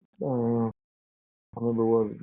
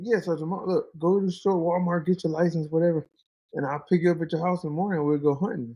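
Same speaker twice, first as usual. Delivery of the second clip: higher, lightly voiced buddy laying out the plan; a hint of a pushy high school friend; buddy's voice; 5 semitones higher than usual. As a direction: pitch up into the friend's eager voice. Buddy giving instructions in story.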